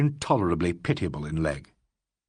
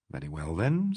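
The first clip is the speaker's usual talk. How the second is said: placid; 5 semitones lower, 4 dB quieter than usual. Acted. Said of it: "said Alan placidly".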